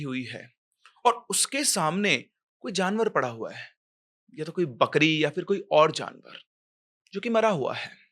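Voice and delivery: animated storyteller, pausing between phrases; suspense story narration. A narrator's reading. (रहस्य भरी कहानी सुनाते हुए)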